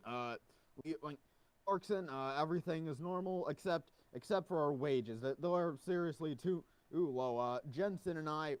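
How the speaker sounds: lightly put-on guard voice; a hint of a nervous guard; Clarkson impression. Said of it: "tried best impersonation of Clarkson's voice".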